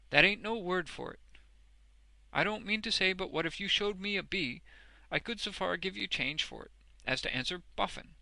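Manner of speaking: high, loud rustic voice; emphatic Boffin. A narrator's reading. Boffin on his neglected education, emphatically. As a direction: insist on it bluntly.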